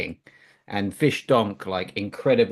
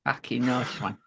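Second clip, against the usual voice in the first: higher-pitched, put-on silly voice; childish mock voice; 5 semitones higher than usual. Coach larking about over a poker hand, childish mock voice. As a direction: clown it up in a high voice. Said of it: "Sorry, I become a child".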